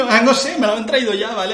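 high, loud, playful player voice; amused mock. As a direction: shrug it off in a silly voice. Voicing the players, still amused. (voz burlona)

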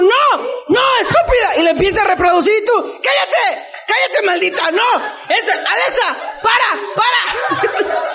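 high, exasperated shouting; yelling at Alexa. Retold or imitated. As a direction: yell to shut it up.

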